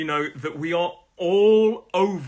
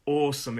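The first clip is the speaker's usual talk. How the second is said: "awesome" stressed on AWE; teacher's model of "awesome", front-stressed; first-syllable stress. Shown as a demonstration. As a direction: hit the first syllable of "awesome", let the second drop. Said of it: "The stress is on the first syllable".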